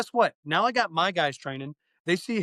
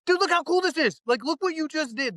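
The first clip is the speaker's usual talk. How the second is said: much higher, excited praise; amping up a student; 10 semitones higher than usual. Retold or imitated. Instructor hyping a student after a good drill, excited. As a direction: hype the student up like it's amazing. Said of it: "I'm all about amping up a student".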